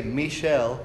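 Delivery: amateur French accent on Michel, "mee-SHELL"; bad French accent. Shown as a demonstration. Preacher showing how they say it in France, bad French accent. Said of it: "sorry for my bad accent".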